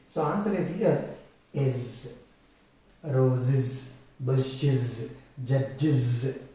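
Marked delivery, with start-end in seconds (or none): 1.5-6.5 low, separate words, each ending in buzzing "iz"; ROSES, BUSHES, JUDGES with a clear iz suffix; pronunciation demo. Shown as a demonstration. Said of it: "like that you will get".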